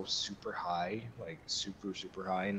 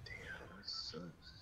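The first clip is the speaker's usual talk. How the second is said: breathy whispered disappointment; whispered curse; 3 semitones lower, 15 dB quieter, much slower than usual. Real, not acted. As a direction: whisper it under your breath. Muttering to himself mid-game.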